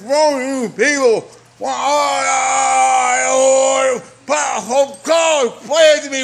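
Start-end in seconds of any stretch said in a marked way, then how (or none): 1.6-6.2 desperate shout cracking into a cry; screaming. Real, not acted. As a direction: yell it at the sky, pleading. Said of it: "I'm fucking screaming".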